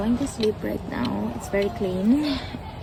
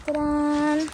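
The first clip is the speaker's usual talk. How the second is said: excited ta-da; 7 semitones higher than usual. Real, not acted. Showing off her tent view.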